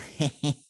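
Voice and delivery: short creature cackle, imitated; horrible laugh. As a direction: mimic the gnome's nasty snicker. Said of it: "like, horrible laugh".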